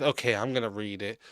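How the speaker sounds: soft, quiet mock of her reading voice; quiet mocking impression of the reader; mocking imitation. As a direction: mimic her prim opening line softly. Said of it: "Had to, like, start it with".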